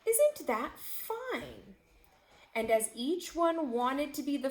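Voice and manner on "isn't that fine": high, slow, pleased tiger; a tiger charmed by the chewing gum; delighted tiger. Acted. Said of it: "The tiger said".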